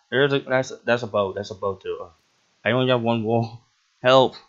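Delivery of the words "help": loud laughing cry for help; half-laughing shout for help. Real, not acted. Chased by mobs.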